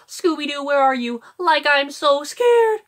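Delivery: Shaggy trailing off breathily from the throat; breathy scared Shaggy. Retold or imitated. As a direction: call for Scooby, spooked and breathy. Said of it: "breathing out of your throat thing".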